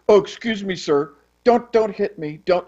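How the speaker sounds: cowering plea, lightly acted; mock timid. Ordinary person cowed by the expert's boo, mock timid plea. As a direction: play a meek person begging off. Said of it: "the person says".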